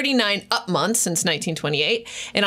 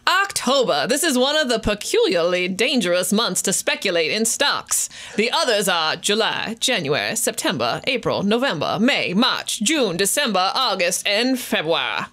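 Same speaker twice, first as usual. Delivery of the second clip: a hint of Southern lawyer orating. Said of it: "break out my Southern lawyer voice".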